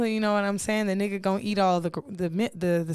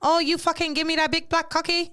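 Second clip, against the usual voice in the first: put-on higher-pitched caricatured Asian accent; hammed-up Asian-accented English; mock Asian accent; 6 semitones higher than usual. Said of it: "This how the girls be".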